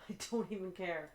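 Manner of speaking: resigned laugh at the broken game. Real, not acted. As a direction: laugh it off in defeat. Repeats it, laughing.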